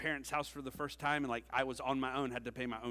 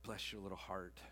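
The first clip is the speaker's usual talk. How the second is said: soft, low, gently patronizing; mock-loving condolence; 7 semitones lower, 11 dB quieter than usual. Older advisers consoling a passionate youngster, gently patronizing. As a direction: say it like a kindly pat on the back. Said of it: "as lovingly as they could".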